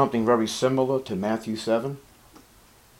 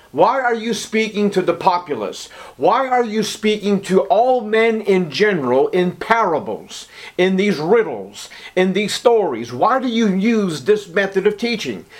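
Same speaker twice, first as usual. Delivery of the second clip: lightly acted, higher-pitched insistent questions; disciples questioning; 5 semitones higher than usual. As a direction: press the master for an explanation, pitch lifted. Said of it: "his disciples came and said unto him".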